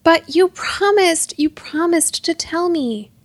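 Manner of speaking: slow, high, wounded fury; furious. A narrator's reading. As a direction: protest the broken promise, drawing it out. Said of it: "Hop trembled with fury".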